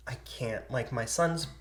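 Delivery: put-on understated, mildly choked-up old neighbor; tearful refusal. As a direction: soften at each refusal, holding back tears. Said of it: "like, tears up, and he's like".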